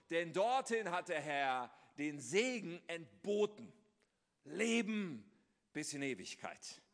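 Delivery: slow, swelling reading of a psalm, lifting key words; solemn scripture reading. Acted. Pastor reading the psalm to the congregation, solemn and slow. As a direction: read the psalm like poetry, savouring each image.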